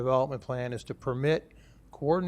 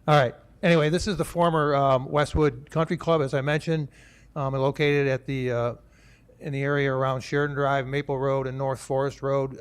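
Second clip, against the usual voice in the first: louder, projecting to the room; talking louder; 5 dB louder than usual. Real, not acted. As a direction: speak up for the back rows. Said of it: "Talk a little louder".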